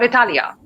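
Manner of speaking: "Italia" with stress on the TA and an added final -ya; foreign-style pronunciation. Shown as a demonstration. Teacher showing another learner variant, "Italia" said as i-TA-lya. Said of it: "A lot of people don't say Italy".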